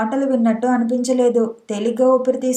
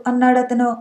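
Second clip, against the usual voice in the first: ordinary delivery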